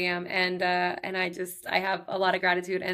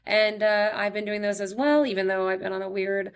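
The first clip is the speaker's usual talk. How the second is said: upbeat sponsor read. Acted. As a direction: sell the product to the listeners.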